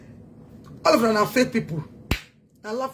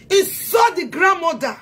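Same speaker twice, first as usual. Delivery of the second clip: outraged shout; 3 semitones higher than usual. Real, not acted. Accusing the rival of disrespect, outraged shout.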